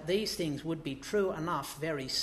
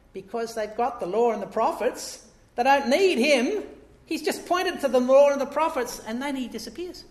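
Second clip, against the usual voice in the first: loud, higher preaching push; preaching emphasis; 7 semitones higher, 8 dB louder than usual. Real, not acted. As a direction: drive the point home to the congregation. Preaching climax, rising force.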